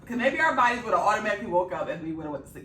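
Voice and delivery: loud, laughing. Real, not acted. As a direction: talk through laughter. Laughing while explaining.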